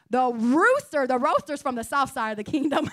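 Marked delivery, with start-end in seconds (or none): 0.1-1.1 The Rooster said carefully, rooster with oo; careful correction. Real, not acted. Preacher correcting a fumbled sermon title, careful. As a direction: land The Rooster deliberately, fixing the slip. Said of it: "See, I can't even say it".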